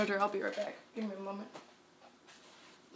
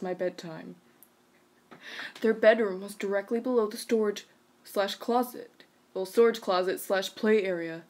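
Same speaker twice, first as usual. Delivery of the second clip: measured, even read-aloud voice; story narration. A narrator's reading. Reading a creepy bedroom story to a listener, story narration. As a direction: read it out evenly, pausing between phrases.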